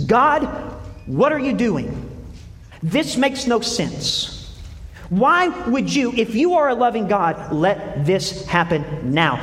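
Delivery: voicing Job's raw complaint to God; anguished cry to God. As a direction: cry out at God in bewildered protest.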